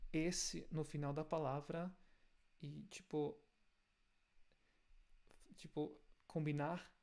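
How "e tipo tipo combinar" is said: usual speaking voice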